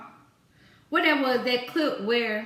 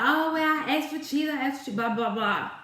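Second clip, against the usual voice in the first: mocking whiny customer; 2 semitones higher than usual. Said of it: "she was just so persistent".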